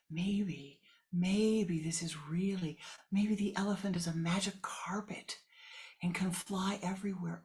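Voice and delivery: dream it aloud, hushed; excited dreamy whisper; whispered wonder. Acted. Blind man imagines a carpet.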